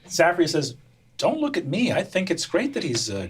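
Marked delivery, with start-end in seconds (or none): 1.2-3.3 sardonic sister. Acted. Sarcastic youngest sister.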